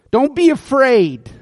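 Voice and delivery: calm a frightened man; reassuring. Retold or imitated. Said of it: "Look at verse seven".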